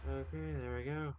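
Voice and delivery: put-on quick throwaway Scottish accent, lightly done; a light Scottish lilt on "Okay, there we go". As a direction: toss off a playful Scottish "there we go". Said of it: "I don't know why I did a Scottish accent".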